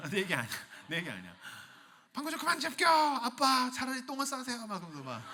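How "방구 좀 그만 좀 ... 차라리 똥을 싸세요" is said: put-on child teasing dad, higher.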